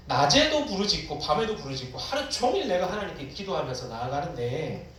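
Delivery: pleading questions with a touch of anguish; mildly acted lament, protesting to God; crying out in prayer. Psalmist asking God why no answer comes, anguished plea. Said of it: "라고 시편 기자가 부르짖습니다".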